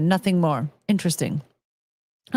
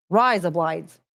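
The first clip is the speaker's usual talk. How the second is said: slightly low Aussie "rise up lights"; mock Australian accent; 4 semitones lower, slower than usual. Shown as a demonstration. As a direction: repeat it as razor blades in Australian. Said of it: "sounds like razor blades in Australian".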